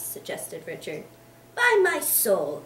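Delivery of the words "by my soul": slow, higher and louder; booming slow oath; exclaimed oath. Acted. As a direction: exclaim it slowly and loud. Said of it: "exclaimed Mister Boythorn".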